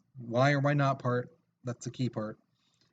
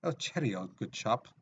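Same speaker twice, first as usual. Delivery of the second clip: mock British accent; 2 semitones lower, 4 dB quieter than usual. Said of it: "we'd all have accents".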